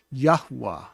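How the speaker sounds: Yahweh as yah-hoo-ah, said fully; hoo in the middle. Shown as a demonstration. Teacher saying the name fully, Yahweh with hoo in the middle. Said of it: "Did you hear the who in the middle?".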